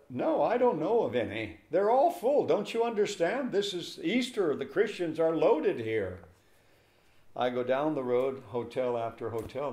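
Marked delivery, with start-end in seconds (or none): 0.1-6.2 high, scolding and impatient; impatient clerk. Retold or imitated. Lodging clerk scolding a guest at Easter, high and impatient. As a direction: lecture her on Easter, much higher.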